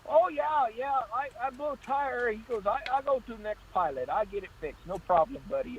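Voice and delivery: high, breezy mock trucker voice; careless trucker. Mimicking the trucker who shrugs off his flat, high and breezy. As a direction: brush it off like it is nothing.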